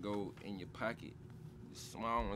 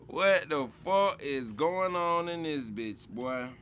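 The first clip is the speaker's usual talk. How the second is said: amazed disbelief; 6 semitones higher, 9 dB louder, slower than usual. Real, not acted. Amazed at slang definitions.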